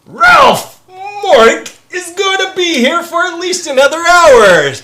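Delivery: announcing loudly. Real, not acted. Announcing to the stream.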